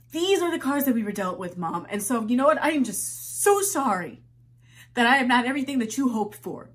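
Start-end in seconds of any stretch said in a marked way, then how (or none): 1.9-6.7 louder, biting and sarcastic; bitter sarcastic apology. Acted. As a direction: spit out a bitter sorry.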